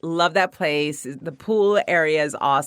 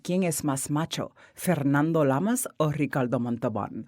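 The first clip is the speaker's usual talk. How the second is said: imitating SNL skit; 4 semitones lower, 6 dB quieter than usual. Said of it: "there used to be this skit".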